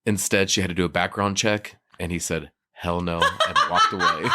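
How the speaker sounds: measured anchor delivery, slowed; news reporter voice. Pretend. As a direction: deliver it like a live field report. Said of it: "Did you have a news reporter voice".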